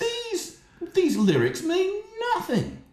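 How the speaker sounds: squeaky high mocking voice. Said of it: "and I thought".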